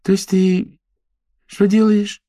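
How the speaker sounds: high, lively gossip; chatty girlfriend voice. Acted. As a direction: voice a bubbly socialite raving. Character Paulina voiced high.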